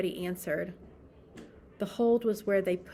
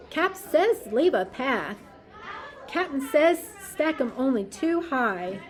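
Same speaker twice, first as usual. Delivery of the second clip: sailors calling out; 5 dB louder than usual. Acted. Busy sailor calls to the crew, loud. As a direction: bark the orders over the noise.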